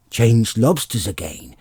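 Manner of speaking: loud, eager yell. Acted. Gryphon yelling the next figure to Alice, loud yell. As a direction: call it out across the beach. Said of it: "yelled the Gryphon at the top of its voice".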